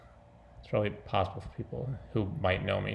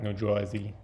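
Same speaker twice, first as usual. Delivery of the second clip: New Jersey said as "Joisey"; New Jersey accent. Shown as a demonstration. Vlogger demonstrating the accent of the character, New Jersey accent. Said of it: "a little bit of all of that".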